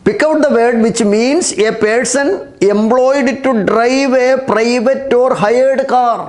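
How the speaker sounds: very slow, word by word, for copying down; slow dictation. Shown as a demonstration. Teacher reading the exam question aloud to pupils, slow dictation. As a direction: dictate each word slowly so pupils can write. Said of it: "നോക്കൂ".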